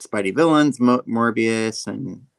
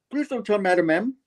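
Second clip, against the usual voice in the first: high-pitched imitated plea; pleading chicken character; 10 semitones higher than usual. Chicken Man begging not to be reported to Madam, high pleading. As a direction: beg in a high cartoon bird voice.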